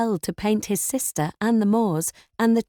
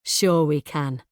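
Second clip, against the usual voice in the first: sneering; 4 semitones lower, slower than usual. A narrator's reading. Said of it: "He sneers".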